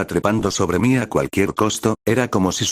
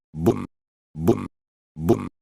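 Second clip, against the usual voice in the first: thud effect; 3 dB quieter, much slower than usual. Acted. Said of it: "golpeado el suelo".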